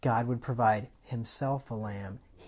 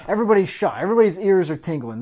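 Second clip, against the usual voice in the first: mock shock; 7 semitones higher, 11 dB louder, faster than usual. Mocking shocked nation.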